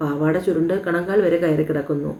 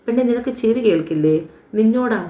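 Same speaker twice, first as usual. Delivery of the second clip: annoyed scolding; 5 semitones higher than usual. Acted. Acted lovers' quarrel, demanding an answer.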